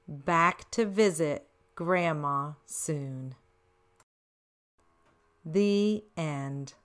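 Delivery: slow, sing-song read-aloud; story reading. Acted. Grandma reading a picture book rhyme to kids, slow and lilting. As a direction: read the rhyme slowly to children.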